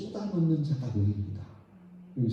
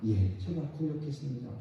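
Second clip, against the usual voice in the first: humble confession; 7 dB quieter than usual. Acted.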